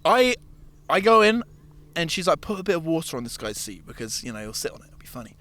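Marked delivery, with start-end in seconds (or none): 2.4-5.4 quiet, conspiratorial; soft, scheming murmur fading away; sneaky suggestion. Retold or imitated. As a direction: drop the voice like you're plotting a prank. Coworker suggests prank, whispered plotting.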